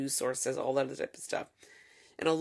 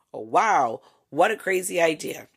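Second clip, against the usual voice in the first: sarcastic; 2 semitones higher, 7 dB louder than usual. Real, not acted.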